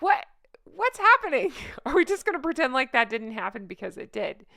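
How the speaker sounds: high, loud mock astonishment; mock surprise. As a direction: play dumb, suddenly baffled. Mocking Megan's pretending.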